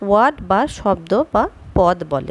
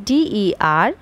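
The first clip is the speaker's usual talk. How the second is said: slow scrambled spelling; much slower than usual. Shown as a demonstration. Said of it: "লিখি".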